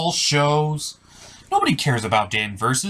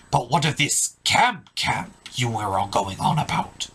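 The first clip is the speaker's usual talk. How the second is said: pirate voice; 4 dB quieter than usual. Acted. Pirate asks about Camp Camp.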